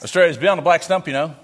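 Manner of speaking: Australian twang, "beyond the black stump"; Aussie slang. Shown as a demonstration. Missionary showing off outback slang, Australian twang. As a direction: toss off the outback phrase. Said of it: "I'm gonna speak the Australian".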